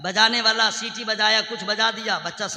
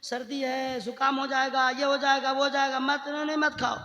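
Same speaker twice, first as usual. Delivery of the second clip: much softer, gentle mother refusing; mother soothing; 8 dB quieter, faster than usual. Retold or imitated. A mother gently refusing her child the ice cream, soft. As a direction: coax the child softly. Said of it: "माँ ने कहा".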